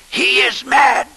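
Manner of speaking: high, loud cry of horror; shocked shout. Acted. Abbot sees Barnaby juggling at the altar, shouts in shock. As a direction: cry out in outrage.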